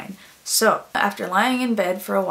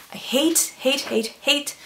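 whispered hate; 4 semitones higher, slower than usual. Real, not acted. Venting about public bathrooms.

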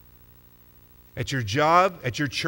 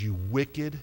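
master's rebuke; 7 semitones lower, 7 dB quieter, much slower than usual. Acted. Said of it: "he answered him and says".

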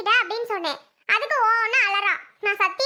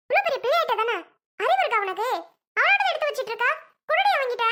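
scolding aunt; 3 semitones higher than usual. Acted. Aunt scolds girl over bottle.

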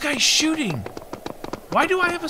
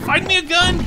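laughing while asking; 5 semitones higher than usual. Real, not acted. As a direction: repeat it through laughter. Laughs right before.

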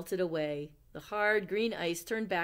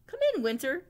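calling out; 8 semitones higher, 8 dB louder, faster than usual. Acted. Owl invites winter in.

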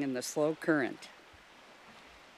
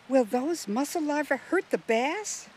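put-on raised, worried young girl's question; Jill asking; 9 semitones higher than usual. Jill, worried for the bass, asks Russell in a higher girl's voice. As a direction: ask it high, as a concerned child.

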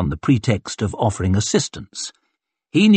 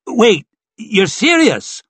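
high, slow dawning alarm; alarmed disbelief; 11 semitones higher, 3 dB louder, slower than usual. A narrator's reading. Onlooker realises the danger, alarmed disbelief. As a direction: stretch it out as it sinks in.

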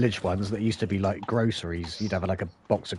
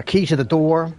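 louder, higher bingo call; bingo caller; 6 semitones higher, 7 dB louder than usual. Pretend. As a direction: call it to the room. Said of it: "a shout out".

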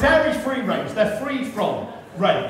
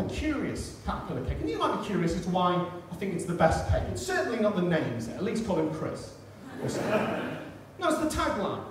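quiet aside; 5 semitones lower, 9 dB quieter, faster than usual. Real, not acted. Low aside mutter.

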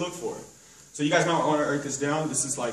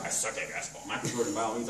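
low, soft mumbled mock answer; a hint of a sheepish new hire; mock defeated trainee; 5 semitones lower, 6 dB quieter than usual. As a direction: play the meek guy who gives up. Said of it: "Some people are gonna be like".

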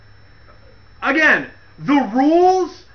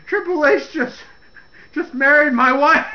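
laughing mock whine; 5 semitones higher than usual. Mocking Test, laughing.

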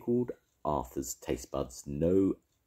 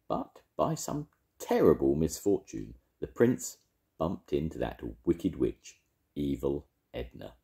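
sprite voice. Acted. Will-o'-the-wisp tells the tale.

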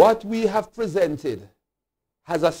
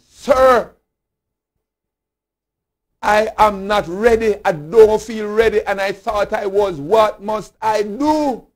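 lightly acted, raised-voice appeal; worried questioner's plea; 4 semitones higher, 4 dB louder than usual. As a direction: imitate someone pleading for guidance, opening loud on "Sir". Voicing worried questioners' letters.

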